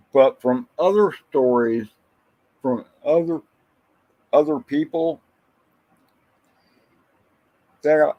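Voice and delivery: hiccuping mid-sentence; speech broken by hiccups. Real, not acted. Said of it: "I'm hiccuping like crazy".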